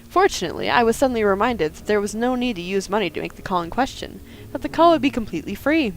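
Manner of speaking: fast, deadpan official statement; mock formal report. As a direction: read it like a sworn police report.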